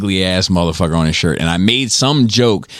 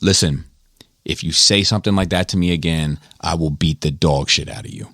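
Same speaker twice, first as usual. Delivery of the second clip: measured, understated menace, falling lower at the end; cool, calm threat; 3 semitones lower than usual. Retold or imitated. Brutus warning the joker, cool and calm. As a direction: imitate a collected man giving a warning. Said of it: "he was a very cool, calm, collected dude".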